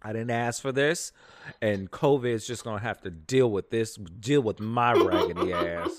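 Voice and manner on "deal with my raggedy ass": laughing. Real, not acted. Joking about covid.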